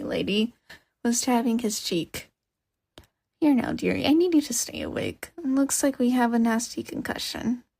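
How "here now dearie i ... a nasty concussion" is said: kindly granny. Acted. Old lady coaxing the hurt boy to stay awake, lightly voiced and caring. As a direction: fuss over him like a gentle grandma.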